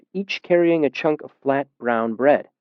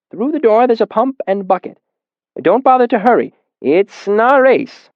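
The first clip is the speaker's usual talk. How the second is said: put-on easygoing old man; 10 semitones higher, 4 dB louder than usual. A narrator's reading. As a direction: tell him no need to rush. Old man directs narrator.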